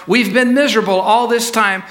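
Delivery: acted exasperation, voice lifted; exasperated. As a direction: raise the pitch and insist you are fed up. Father repeats it, now heated.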